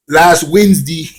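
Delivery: mock country hick twang; hick accent. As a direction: imitate a hick accent, stretching the words. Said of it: "He's got that hick accent".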